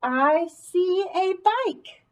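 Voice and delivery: put-on very slow, clear reading for children; teacher leads the class through the sentence slowly; slow choral read. Shown as a demonstration. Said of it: "Read it with me".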